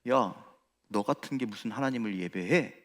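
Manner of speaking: mock the listener as a sneering tempter; Satan's whisper. Preacher voicing Satan's taunt to worshippers, hushed and sneering. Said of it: "사탄이 뭐라고 이야기하냐면".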